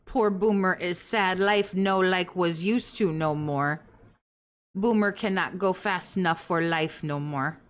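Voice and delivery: slow, laboured simpleton delivery; mock pitying lament. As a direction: plod through it in mock sorrow, word by word. Mock lament in broken English.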